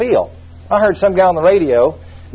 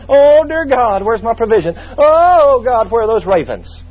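mock wail; 4 semitones higher than usual. Stranded prophet crying out.

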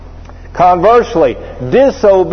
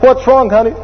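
concerned wife; 7 semitones higher than usual. Retold or imitated. Wife asks husband.

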